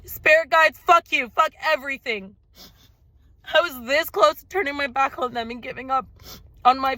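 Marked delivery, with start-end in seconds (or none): 0.0-2.3 retold angry outburst. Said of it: "And I was like".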